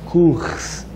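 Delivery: "Kurs" with the R nearly silent, no vowel after it; Hebrew pronunciation. Shown as a demonstration. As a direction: say "Kurs" in one short syllable, R mute. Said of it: "Kur, o R mudo".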